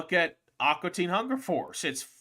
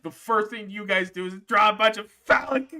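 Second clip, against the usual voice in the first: exasperated outburst; 8 semitones higher, 8 dB louder than usual. Real, not acted. Exasperated at friends drawing.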